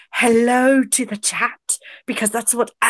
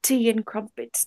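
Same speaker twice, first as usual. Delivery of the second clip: clipped wartime posh; 6 dB quieter than usual. Pretend. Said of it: "I am Anton".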